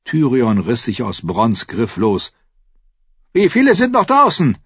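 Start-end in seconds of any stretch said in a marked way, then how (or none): 3.3-4.6 high, loud urgent question; loud calling out. A narrator's reading. Dwarf asking everyone who is still outside, calling loudly. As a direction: call it out to the whole courtyard. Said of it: "rief er laut".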